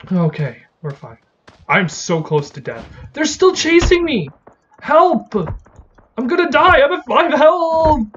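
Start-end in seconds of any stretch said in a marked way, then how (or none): 3.1-8.1 high panicked shouts; panicked yelling. Real, not acted. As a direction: scream for help while fleeing. Fleeing mobs at low health.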